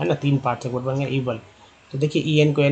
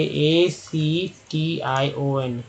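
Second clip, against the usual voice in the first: slow spelling out; much slower than usual. Shown as a demonstration. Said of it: "क्या पढ़ेंगे".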